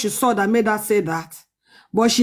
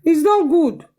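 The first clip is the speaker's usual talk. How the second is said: rising disapproval; 6 semitones higher, slower than usual. Real, not acted. Repeated disapproval, rising pitch.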